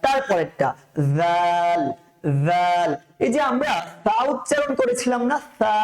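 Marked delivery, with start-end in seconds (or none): 1.2-2.9 জাল said softly, tongue tip against the teeth; soft zal. Shown as a demonstration. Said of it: "জাল, নরম করে পড়বো".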